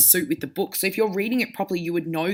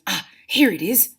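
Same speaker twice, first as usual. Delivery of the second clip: excited; 3 dB louder than usual. Shown as a demonstration. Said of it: "said Hermione excitedly".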